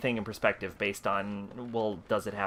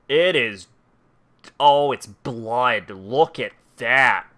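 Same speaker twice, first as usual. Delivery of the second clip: excited; 9 dB louder, slower than usual. Real, not acted. Excited find of a blood item.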